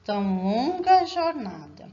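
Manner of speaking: "tão longa jornada" measured out syllable by syllable; scanning the verse. Shown as a demonstration. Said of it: "vamos fazer essa escansão".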